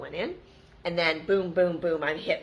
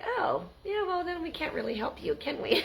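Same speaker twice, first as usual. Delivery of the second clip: mock bank agent; 12 semitones higher than usual.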